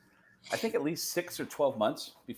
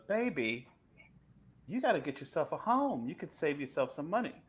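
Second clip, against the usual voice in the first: imitation of a singer; 4 semitones higher than usual. Retold or imitated. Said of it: "a singer goes".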